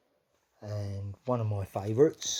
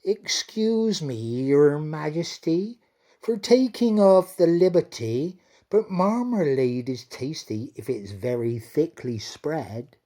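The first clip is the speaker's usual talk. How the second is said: shy dairymaid; 6 semitones higher, 9 dB louder than usual. Acted. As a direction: ask timidly, a little embarrassed. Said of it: "she turned a little red".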